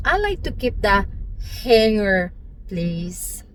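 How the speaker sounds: "hanger" said slowly and deliberately; rehearsed, careful English; carefully prepared pronunciation. Retold or imitated. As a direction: pronounce "hanger" with studied care. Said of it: "piniprepared ko pa yung pag-pronunciation ko".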